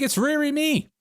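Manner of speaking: put-on high-pitched caricature of a Chinese accent; mock Chinese accent. Host pleading with Chinese listeners, in a mock Chinese accent. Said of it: "You mock our accent".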